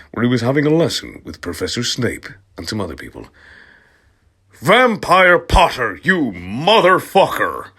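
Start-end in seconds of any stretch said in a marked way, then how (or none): 4.6-7.7 high, loud, slow yell; a hammed-up furious yell. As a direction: scream it across the classroom. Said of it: "I yelled".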